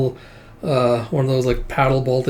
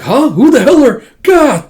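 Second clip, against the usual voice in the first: much higher, louder squawk cut off; mock startled yell; 12 semitones higher, 10 dB louder than usual. Surprised gang member yelps as he is knocked down. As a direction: yelp as you get hit. Thug ambushed, beaten.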